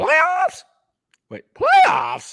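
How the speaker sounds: very high, loud ranting yell, blurted out. Doing the famous playoffs rant at a co-host's request: Jim Mora impression. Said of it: "Willie voted for Mora".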